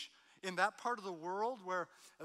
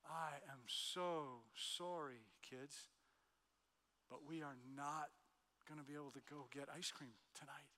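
regretful apology; 4 semitones lower, 9 dB quieter than usual. Retold or imitated. Dad telling the kids ice cream is cancelled, regretful. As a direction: deliver bad news with real regret.

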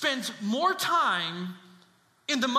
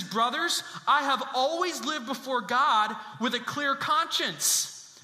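firm, slow declaration; slow, assured declaration to the brothers; emphatic statement; 3 semitones higher than usual. Acted. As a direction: state it with an exclamation point. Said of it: "That's a statement with an exclamation point".

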